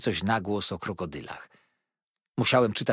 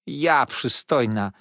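exclaimed; 4 dB louder, much slower than usual. Acted. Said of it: "zawołała Peggoty".

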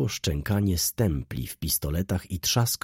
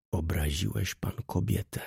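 quietly; 5 dB quieter than usual. Acted. Wokulski quietly tells the baron why, softly. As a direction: say it quietly, looking him in the eye. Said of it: "odparł cicho Wokulski".

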